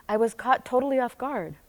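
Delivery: breathy whisper. Real, not acted. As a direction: whisper the shock. Whispering a shocked moment.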